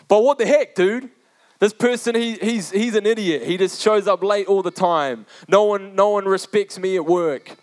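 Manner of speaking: high, indignant griping at God; mock-frustrated prayer rant; exasperated complaint. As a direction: whine about a coworker, pitched well up. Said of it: "And prayer, you're like".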